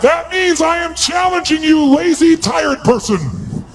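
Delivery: slow, high, emphatic challenge; forceful challenge. Shown as a demonstration. Coach challenging a lazy tired person, forceful slow dare. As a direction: throw down the dare, word by word.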